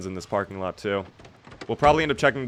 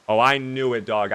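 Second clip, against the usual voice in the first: gleeful repeat of Oh, I knew it; excited. Real, not acted. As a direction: punch it a bit more, chuffed. Repeats the find, more excited.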